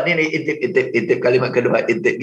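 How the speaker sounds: low-pitched repetitive mumbling mimicry; furtive peeking imitation. Trainer mimicking trainees peeking at their notes, low and furtive. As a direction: drop the pitch as if sneaking looks at notes.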